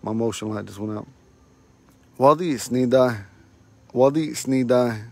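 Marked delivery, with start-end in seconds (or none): 2.2-5.1 slow teaching demo. Shown as a demonstration. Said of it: "You're late and you all are late".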